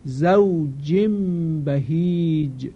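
slow zawjin bahij with the n turned to m; drawn-out بهیج, careful recitation; slow iqlab reading; tajweed example. Shown as a demonstration. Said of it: "با هم بخوانیم".

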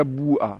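بوعه said bu'a, with long u; bu'a, the first vowel a long u in بوعه; ya turned to waw. Shown as a demonstration.

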